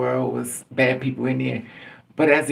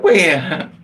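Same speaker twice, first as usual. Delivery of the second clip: alarmed mom; 5 semitones higher, 8 dB louder than usual. Retold or imitated. Mother alarmed question.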